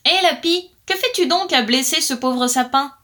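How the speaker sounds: blackbird calls up to the magpie, loud and bright; calling out. Acted. Blackbird hails the magpie in the tree, calling out.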